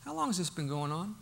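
quiet clinical inquiry; doctor-like question. Retold or imitated. Preacher quoting Jesus like a doctor asking a father. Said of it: "Jesus sounds like a doctor".

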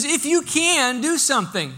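high, loud, slow doubtful plea; a father half-hoping, half-doubting; skeptical plea. Retold or imitated. Preacher voicing the doubting father begging Jesus, skeptical. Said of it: "This man says".

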